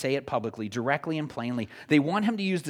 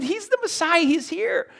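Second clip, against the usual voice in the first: much higher, louder joyful cry; excited crowd; 13 semitones higher, 5 dB louder than usual. Retold or imitated. Preacher acting followers growing more excited, shouting. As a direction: announce it like thrilling news. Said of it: "they get more excited".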